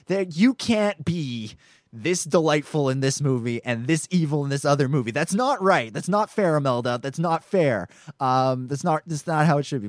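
mock scolding. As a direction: protest in mock outrage, pitch jumping on the complaints. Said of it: "And I'm like".

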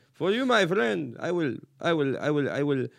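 mock Arab haggler's accent. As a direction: ham up an Arab merchant striking a bargain. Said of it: "When the Arab man says".

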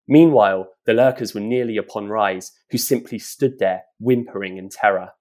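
put-on reading a children's adventure aloud, vivid; storyteller voice for a podcast; story narration. A narrator's reading. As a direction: build the menace as you read. Reads story extract aloud.

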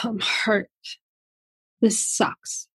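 near-whisper, the hurt part speaking softly; hurt inner voice, hushed. Retold or imitated. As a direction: breathe "This sucks." out almost voiceless, hurting. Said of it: "part that's screaming and yelling and feeling like".

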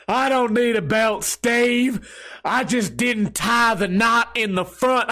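a hint of the tipsy Southern old-timer, half laughing; country accent. Old man insists he needs no belt, light country accent. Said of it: "he has a country accent".

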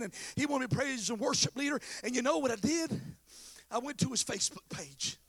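lively pulpit delivery; energetic preaching. Real, not acted. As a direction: push the story along like a preacher.

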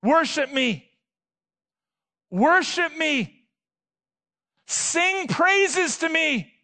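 slowing, rising call to worship me; God's command. Retold or imitated. Preacher voicing God calling for praise, building and slowing.

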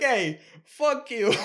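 high, drawn-out mock shout; slow, hammed-up parting insult; mock defiant yell. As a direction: imitate a puffed-up man hollering. Voices man yelling back.

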